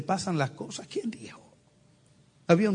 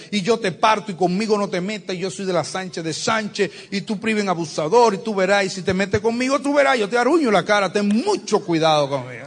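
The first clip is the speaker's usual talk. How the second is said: quarrelsome wife; 2 semitones higher, 3 dB louder than usual. Acted. Wife's quarrel retold louder.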